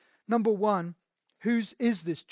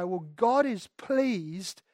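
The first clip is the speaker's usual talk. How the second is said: higher, louder, slowed, smug; a hint of a smug Pharisee; mock Pharisee; 4 semitones higher, 3 dB louder than usual. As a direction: play a self-righteous holier-than-thou man. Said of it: "scribes and Pharisees who would say".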